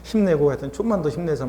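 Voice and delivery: mild, soothing self-encouragement; gentle self-comforting. Acted. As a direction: console yourself kindly, unhurried at first. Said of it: "본인 또 토닥토닥거려주고".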